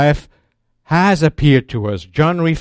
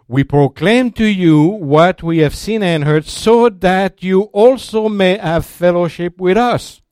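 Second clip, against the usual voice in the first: louder, ringing out each clause of the verse; emphatic proclamation; 5 semitones higher, 3 dB louder than usual. Real, not acted. Preacher quoting John to the congregation, emphatic and loud.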